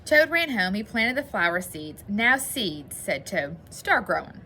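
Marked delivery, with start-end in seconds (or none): 0.1-2.0 put-on expressive read-aloud to children; measured storybook narration with lively dialogue; story reading. A narrator's reading. Teacher reads Frog and Toad to boys and girls, storybook narration. 3.0-3.6 put-on expressive read-aloud to children; measured storybook narration with lively dialogue; story reading. A narrator's reading. Teacher reads Frog and Toad to boys and girls, storybook narration.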